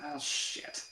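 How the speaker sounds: breathy whispered oh shit; mock horror under the breath; whispered dread. Imagining the bomb, a whispered dread.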